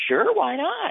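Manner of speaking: high, breezy voice for the clerks. Retold or imitated. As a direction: toss it off lightly, like a shrug. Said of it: "And they said".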